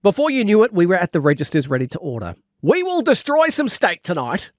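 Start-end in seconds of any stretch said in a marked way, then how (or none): 2.6-4.5 higher, gleeful mock cheer; cheering stomach. Hungry narrator's stomach cheering for steak, gleeful mock cheer. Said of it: "my stomach cheered".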